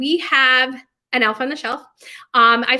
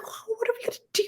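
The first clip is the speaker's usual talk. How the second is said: panicked question; 12 semitones higher, 10 dB quieter than usual. Retold or imitated. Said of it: "I'm like".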